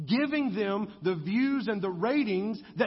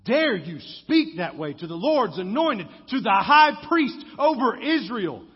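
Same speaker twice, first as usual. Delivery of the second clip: loud scandalised challenge, rising at the end; priests' outraged comeback; indignant retort; 7 dB louder than usual. Retold or imitated. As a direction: demand how he dares speak so. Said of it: "And then they go".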